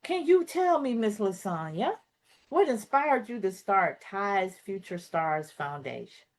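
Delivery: polished anchor delivery, crisp and formal; newscaster voice. Shown as a demonstration. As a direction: ask it like a TV news anchor. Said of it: "Let me do it in a newscaster way".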